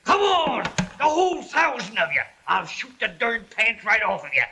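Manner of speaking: bragging yell of a frontiersman; boastful retelling. Retold or imitated. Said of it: "And then I said".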